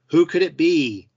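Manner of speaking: high, loud dramatic question; suspenseful tease. A narrator's reading. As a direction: tease the cliffhanger. Cliffhanger question in recap.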